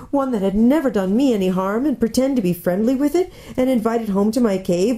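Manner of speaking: a hint of anguished faun; lightly voiced, urgent confession; self-reproaching faun. Faun admitting kidnapping to Lucy, mildly anguished.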